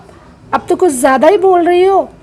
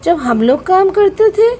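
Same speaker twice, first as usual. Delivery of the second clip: angry rebuke; 5 semitones higher than usual. Acted. Aunt rebukes Shivay.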